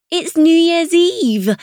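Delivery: high, slow, emphatic; insistent friend. Acted. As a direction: spell it out for her. Chloe insisting over music.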